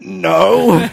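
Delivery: high, loud tearful squeak; hammed-up wail of denial; mock crying. Schoolboy insisting to the bully he isn't crying, mock tearful wail. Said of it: "I started crying in relief".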